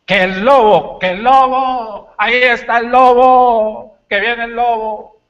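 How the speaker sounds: high, loud alarm cry of a caveman; panicked caveman yelling about the wolf; caveman shouting. Acted. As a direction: bellow the wolf warning from the cave door. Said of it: "Y allí empezó a gritar".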